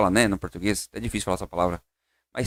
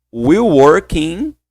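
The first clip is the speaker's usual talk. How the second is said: very slow, word by word; slow drill; 2 semitones higher, 5 dB louder, much slower than usual. Shown as a demonstration. Teacher slowly leads students through the phrase. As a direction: draw each word out.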